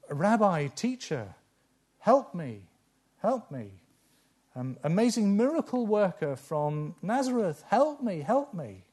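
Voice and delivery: a beggar calling out high and loud, pleading; desperate plea for help. Pretend. Blind beggar calling out to Jesus, high desperate plea. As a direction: cry out to Jesus, begging him to help. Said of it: "what would you cry out and say".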